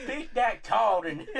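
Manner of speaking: slow, laughing mock Southern gent; Colonel Sanders. Friend joins in as the chicken colonel, slow Southern drawl. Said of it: "he's basically Colonel Sanders".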